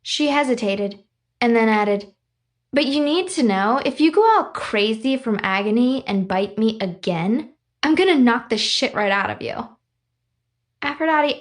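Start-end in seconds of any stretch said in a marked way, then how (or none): 2.7-9.8 put-on snippy girl voice with a bite; tough girl threat. Aphrodite threatens Stevie Ray. 10.8-11.4 put-on higher, wounded young girl. Stevie Ray answers, hurt.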